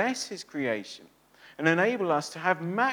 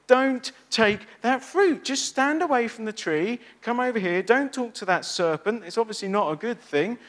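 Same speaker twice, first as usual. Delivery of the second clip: stern warning; 5 semitones higher, 4 dB louder than usual. Acted. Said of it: "God said".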